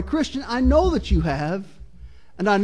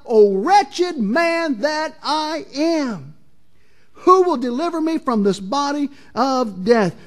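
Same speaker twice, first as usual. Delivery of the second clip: crying out in anguish; 2 semitones higher, slower than usual. Retold or imitated. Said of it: "he cries out".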